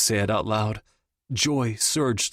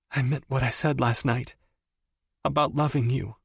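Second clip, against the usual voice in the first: miserable; 4 semitones higher than usual. A narrator's reading. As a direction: confess it as if it hurts. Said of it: "she said miserably".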